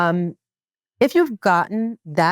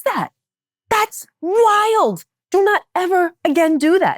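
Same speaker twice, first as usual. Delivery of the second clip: scolding; 10 semitones higher than usual. Retold or imitated. Mother scolding friend for language near her children, high emphatic. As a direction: lay down the law about my children. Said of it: "I said".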